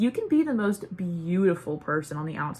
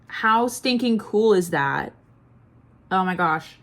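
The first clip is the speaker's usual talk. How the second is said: slow and louder, thrilled; excited; 5 dB louder, slower than usual. Real, not acted. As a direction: gush over how cool it is. Showing off a unicorn mascara.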